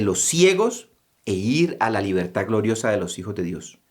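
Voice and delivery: slow earnest prayer; pleading prayer. Acted. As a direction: beg for healing, slowly and sincerely. Praying plea for healing.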